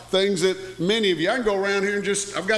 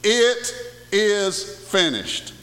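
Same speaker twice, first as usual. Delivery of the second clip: solemn quote; 3 semitones higher, much slower than usual. Acted. Quoting Jesus on the cross.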